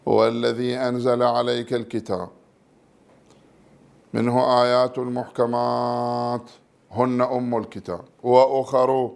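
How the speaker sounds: measured verse recitation, building towards the end; Quran recitation. Acted. Teacher reciting the verse behind the terms to students, Quran recitation.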